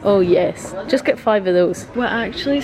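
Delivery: talking through a face mask; words muffled behind a mask. Real, not acted. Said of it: "I keep trying to talk with my mask on".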